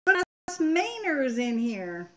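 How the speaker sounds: sudden high, loud mock outrage; mock indignant. Real, not acted. Wife to chat reader, high loud mock outrage. Mainer reacts to Massachusetts friends.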